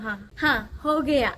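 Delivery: mock answer with a laugh breaking in; half-laughing imitation of her clumsy early answer; laughing reply. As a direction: laugh through the borrowed Hindi words. Mimicking her early Hindi reply.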